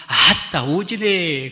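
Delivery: loud, delighted Jeolla-dialect exclamation from the mother. Retold or imitated. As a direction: burst out "아따" like a proud Jeolla mother. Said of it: "전라도 말로 그대로 우리 어머니 흉내를 내볼게요".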